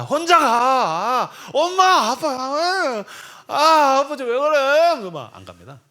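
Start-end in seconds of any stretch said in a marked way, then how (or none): 0.0-1.3 a drawn-out, higher, louder brush-off; sulky teen brushing off dad. Retold or imitated. Teenage son snubbing his father's dawn hike, slow and sulky. 1.5-5.0 much higher and louder, a whining cry; whiny teen protest. Retold or imitated. Teen son woken at dawn, whining loudly to his parents.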